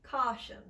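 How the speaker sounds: "caution" with a narrow, tight British aw. Shown as a demonstration. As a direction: say "caution" as "kaw-shun", lips rounded. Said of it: "it's much more narrow and very tight".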